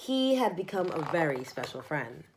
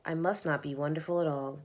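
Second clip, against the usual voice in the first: sad; 3 semitones lower, 5 dB quieter than usual. Acted. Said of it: "he sighed".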